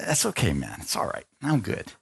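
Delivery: soft, low brush-off; reluctant refusal. Retold or imitated. Man declining friend's offer of healing, quietly reluctant. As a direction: decline quietly, wanting no attention.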